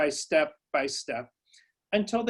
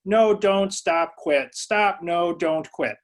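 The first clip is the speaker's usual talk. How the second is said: louder, rapid string of no, don't, stop; flustered scolding; 3 semitones higher, 5 dB louder, much slower than usual. Retold or imitated. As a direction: fire off one frantic order after another at the child. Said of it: "I said".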